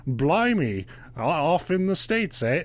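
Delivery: hammed-up Cockney-ish English, pitch jumping high on "off in the States"; mock a chirpy Englishman; mocking English accent. Host imitating the witch mocking the Englishman, exaggerated English accent. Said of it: "one of those mocking, like".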